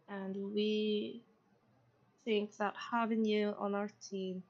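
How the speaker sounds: lightly voiced woman with a thick Scottish accent. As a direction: speak as a woman with a Scottish brogue. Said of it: "feminine voice with fairly thick Scottish accent".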